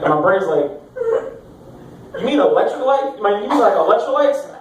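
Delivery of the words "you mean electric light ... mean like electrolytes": higher-pitched, puzzled questioning; puzzled correcting. Acted. Brain correcting the hungover body, puzzled.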